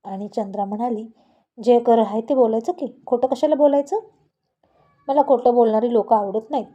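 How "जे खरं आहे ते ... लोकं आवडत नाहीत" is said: louder, firm indignant reply; indignant retort. Acted. Wife firmly telling husband she hates liars, indignant and louder. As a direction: set him straight, voice raised.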